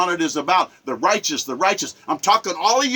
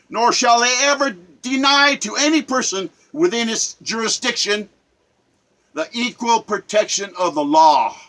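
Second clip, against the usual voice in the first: formal reading. Shown as a demonstration. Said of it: "I'm gonna read it to you".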